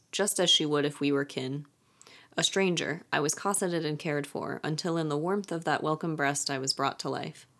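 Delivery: calm, softening reading voice; poem reading. Acted. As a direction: read the riddle gently, like a poem. Reads riddle poem aloud.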